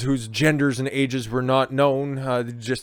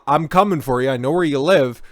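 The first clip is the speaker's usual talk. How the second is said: mock menace; 2 semitones higher, 6 dB louder than usual. Voicing the threat mockingly.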